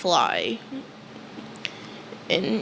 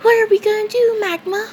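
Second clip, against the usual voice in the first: much higher, louder panicked repeat; rising panic; 11 semitones higher, 3 dB louder, faster than usual. Retold or imitated. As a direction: push it up higher, near panic. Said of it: "And Asta says".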